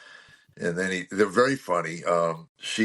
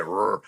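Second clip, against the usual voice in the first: engine cranking noise. Shown as a demonstration. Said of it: "It's the crank of the key".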